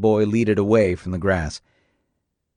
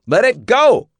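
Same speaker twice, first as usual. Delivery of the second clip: higher, louder urgent order; yelled command; 13 semitones higher, 7 dB louder than usual. A narrator's reading. J W runs after boy, urgent shout. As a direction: shout while running. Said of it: "J W yelled as he ran".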